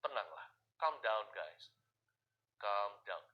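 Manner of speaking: slow, low soothing calm down; Jesus calming his scared disciples, low and slow; calm reassurance. Acted. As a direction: settle frightened friends gently and slowly. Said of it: "ini kata-kata Tuhan".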